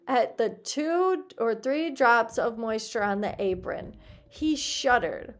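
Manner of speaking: expressive audiobook reading; story narration. A narrator's reading. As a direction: read it out as a lively tale. Reads the story aloud.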